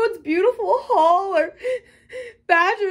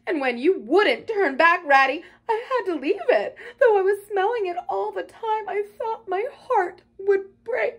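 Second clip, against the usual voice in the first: high, loud tearful wailing; sobbing brokenly; 6 semitones higher, 4 dB louder than usual. A narrator's reading. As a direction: pour it out through acted sobs, voice pitched up. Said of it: "he sobbed forth at last brokenly".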